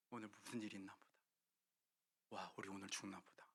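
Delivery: low, hushed, scared muttering; frightened whisper. Acted. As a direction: sound like soldiers losing heart. (겁에 질려 낮게 속삭이듯)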